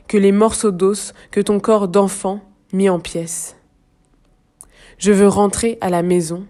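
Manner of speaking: measured, slightly projected poetry recitation; deliberate phrases set apart by pauses; poem reading. Acted. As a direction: read the verse gravely, pausing between lines. Reads another part of poem.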